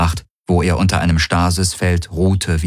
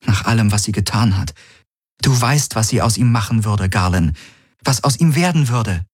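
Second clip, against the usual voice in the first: lightly voiced woman, higher pitched; insistent Kirai; 4 semitones higher than usual. Kirai argues with Galen over the child, lightly voiced insistence. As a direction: raise the pitch a little, pressing the point.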